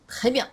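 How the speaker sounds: "Très bien" with T fused into the French R; "Très bien" in two tight syllables; correct French pronunciation. Shown as a demonstration. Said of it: "こちらと".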